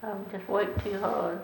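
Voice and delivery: slow, weary excuse; a slow, tired-out voice. Pretend. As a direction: sound worn out from working all day. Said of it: "suppose you're real tired".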